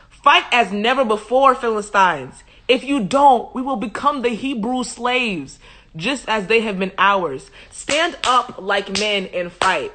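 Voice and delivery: rally the soldiers, firm and emphatic; hyping up troops. Acted. Philistines urging each other to fight on, rousing hype. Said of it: "they're hyping themselves up".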